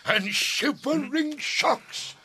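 booming, slow tyrant ranting; Hercules' vein. Acted. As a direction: rant like a grand stage tyrant. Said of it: "This is Hercules' vein, a tyrant's vein".

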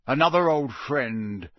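loud, gruff growl; forceful growled remark. Acted. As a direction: growl it with menace. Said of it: "growled Moody".

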